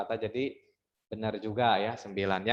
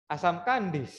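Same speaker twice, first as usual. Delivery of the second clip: "Asam kandis" higher, ends abruptly; cut short; 6 semitones higher than usual. Shown as a demonstration. Teacher showing a too-short line sounding unfinished. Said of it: "kurang misalnya asam kandis doang".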